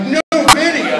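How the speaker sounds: high, loud shocked question with a laugh; disbelief. Retold or imitated. Actor shocked when the director cuts the video, laughing. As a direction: squeal it in disbelief.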